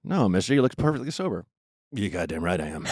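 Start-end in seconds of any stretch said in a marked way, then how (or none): 1.9-2.9 put-on drunk shout. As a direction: bellow it like a proud drunk. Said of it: "Lenny Bruce's".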